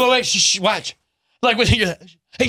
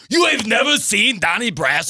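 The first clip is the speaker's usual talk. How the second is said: mock outraged shout; 5 semitones higher than usual. A guy appalled she hasn't seen Donnie Brasco, mock shout. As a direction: act appalled at the movie gap. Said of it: "he's like".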